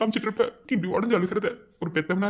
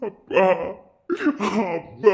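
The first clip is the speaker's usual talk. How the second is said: calling out; 3 dB louder, much slower than usual. Acted. Son calls out to father.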